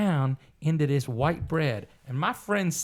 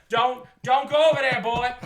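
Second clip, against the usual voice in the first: 1 imitating a stern elder woman; 7 semitones higher, 4 dB louder than usual. Voicing the old black lady.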